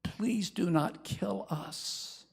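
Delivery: slow whispered begging; whispered plea. Retold or imitated. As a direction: breathe a plea for mercy. Abigail begging for mercy.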